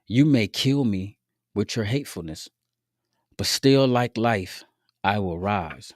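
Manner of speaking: slow, deliberate lines with pauses between; poem recitation. Acted.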